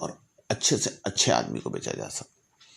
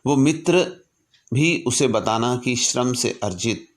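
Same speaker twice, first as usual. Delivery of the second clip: raised, earnest recitation of a letter; formal letter reading; 3 dB louder than usual. Acted. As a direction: read it like a solemn public address. Reads Lincoln's letter aloud. (गंभीर भाव से पत्र का पाठ)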